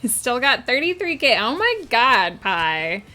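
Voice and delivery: put-on swooping valley girl singsong. Streamer playing up a viewer's redeem, valley girl voice. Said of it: "talk like a valley girl for the next five minutes".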